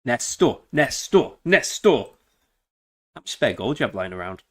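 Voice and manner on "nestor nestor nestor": calling out. Real, not acted. Calling out teammate's name.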